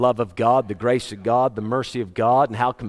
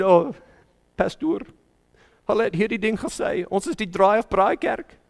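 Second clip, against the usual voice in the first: higher-pitched imitation of an upset woman; upset church member; 5 semitones higher than usual. Church member reporting an insult to her pastor, mildly upset. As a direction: mildly mimic a member's hurt complaint. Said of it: "she was very upset".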